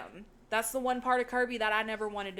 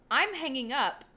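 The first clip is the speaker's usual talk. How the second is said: mock-dramatic quote, pitched higher and louder; dramatic announcement; 4 semitones higher, 5 dB louder than usual. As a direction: imitate a dramatic phone hang-up. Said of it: "they try to do it dramatically".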